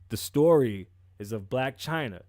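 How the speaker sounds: stuffy nose from allergies; blocked nose. Real, not acted. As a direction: talk through a blocked nose. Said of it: "I just got really bad allergies".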